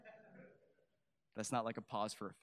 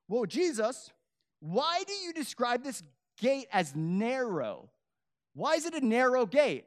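voiced questioner; 11 semitones higher, 9 dB louder than usual. Voicing a listener's question to Jesus.

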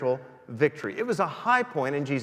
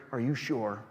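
devil whispering; 6 semitones lower, 6 dB quieter than usual. Acted. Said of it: "he whispers in our ears".

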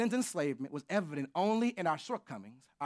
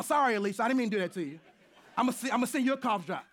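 laughing; 5 semitones higher, 5 dB louder, much faster than usual. Real, not acted. Laughing apology after joke.

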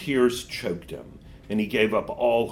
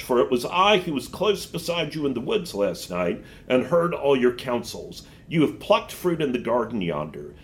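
witch voice; 3 semitones higher than usual. Acted. Witch tempts the boy.

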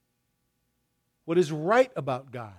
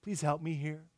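soft, slow whispered-like plea to the Lord; slow, soft retold prayer; quiet prayer; 8 dB quieter, slower than usual. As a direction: murmur a quick prayer under your breath. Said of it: "So I immediately say".

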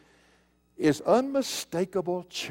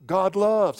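LOVES punched loud; forceful emphasis on LOVES; stress on the verb; 3 semitones higher, 7 dB louder than usual. Shown as a demonstration. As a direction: drive home the word "loves". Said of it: "The emphasis is on the verb".

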